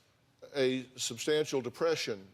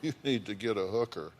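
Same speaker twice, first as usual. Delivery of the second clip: ordinary delivery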